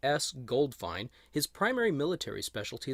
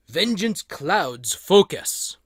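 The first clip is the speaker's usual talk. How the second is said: slow, loud, higher put-on vague Asian-style warrior accent; unplaceable mystery accent; 5 semitones higher, 8 dB louder, much slower than usual. Reading the figure's file card quote aloud, in a slow, loud, unplaceable put-on accent. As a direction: intone it like a solemn ninja master in some unplaceable accent. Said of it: "I have no idea what that accent was".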